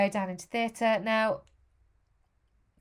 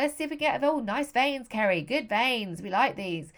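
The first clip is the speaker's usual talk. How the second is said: lightly voiced South African, chatty and louder; South African anaesthetist; 4 semitones higher, 4 dB louder than usual. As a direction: imitate a jovial South African doctor. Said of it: "very broad South African as well".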